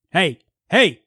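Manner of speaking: loud, high confronting shout; shouted challenge. Acted. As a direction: call out sharply to a stranger. Player confronts a masked figure.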